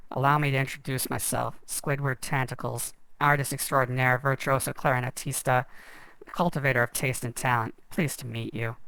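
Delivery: low, slow, bored nasal-free drone; lightly voiced bored Squidward. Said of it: "Squidward in his slow, bored voice".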